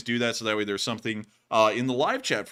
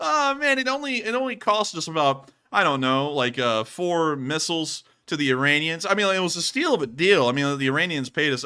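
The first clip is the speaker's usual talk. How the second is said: hammy voice; 6 semitones higher, 8 dB louder than usual. Acted. Iran-Contra joke bit.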